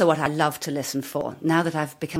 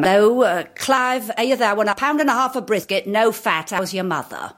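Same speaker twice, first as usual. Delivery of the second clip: lightly voiced South London mother, slightly raised; South London Jewish mother; 3 semitones higher than usual. Improvised call to the butcher as South London Jewish mother. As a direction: place a brisk, bossy order with the butcher. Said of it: "recognisable as sort of South London".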